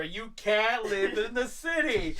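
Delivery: lightly voiced cartoon villain; slow, drawn-out mock menace, amused; Hopper. Bug villain warns Flick off the city, mock menace. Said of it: "I'll just come as Hopper".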